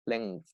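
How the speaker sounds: "Length" low and soft, final th audible; pronunciation demo. Shown as a demonstration. Teacher repeats the word for students, careful final th. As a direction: model "Length" with its closing th. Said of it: "Con ese sonido al final".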